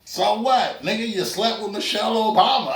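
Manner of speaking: dismissive scoff at a big achievement; unimpressed family. Retold or imitated. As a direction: shrug it off like a jaded relative. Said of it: "your family just be like".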